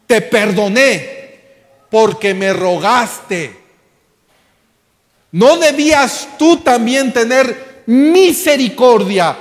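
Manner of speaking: slow, weighty rebuke from the master; angry master. Acted. Master rebukes the unforgiving servant before the church, slow stern anger. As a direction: scold the wicked servant, each word heavy. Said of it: "su señor enojado".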